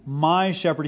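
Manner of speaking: "My" given the weight, "shepherd" falling; stress on my. Shown as a demonstration. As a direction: echo it, pressing on "My".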